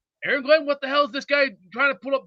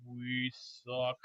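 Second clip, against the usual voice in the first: defeated fan; 12 semitones lower, 15 dB quieter than usual. Retold or imitated. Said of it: "put another paper bag over my head and just go".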